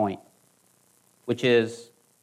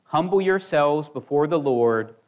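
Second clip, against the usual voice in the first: scripture reading. Acted. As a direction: lean into each command, reverent. Reads James 4 aloud.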